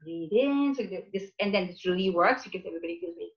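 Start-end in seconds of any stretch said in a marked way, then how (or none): 0.0-0.7 calm relaxation guide. Shown as a demonstration. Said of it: "progressive muscle relaxation".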